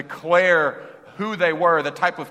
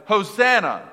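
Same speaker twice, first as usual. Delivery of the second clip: a joyful shout, much louder and higher; shouted hosanna; 6 semitones higher, 7 dB louder than usual. Retold or imitated. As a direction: cry it out like the crowd greeting a king. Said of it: "they shouted".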